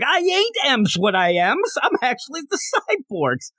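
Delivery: lightly hammed-up Cyborg voice. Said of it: "I'm Cyborg".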